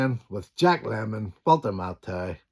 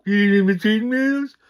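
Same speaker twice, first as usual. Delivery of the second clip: high, loud indignant repeat; a loud, high, outraged mimic of the cashier; outraged echo; 11 semitones higher, 8 dB louder than usual. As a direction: fire the question straight back, louder and higher. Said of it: "he goes".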